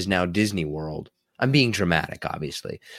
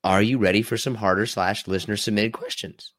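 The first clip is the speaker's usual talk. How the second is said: voice cracking. Real, not acted. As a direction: voice cracks mid-question. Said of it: "Did you hear my voice crack".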